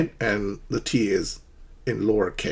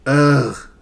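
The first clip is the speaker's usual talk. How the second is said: frustrated ugh; 3 semitones higher, 6 dB louder than usual. Shown as a demonstration.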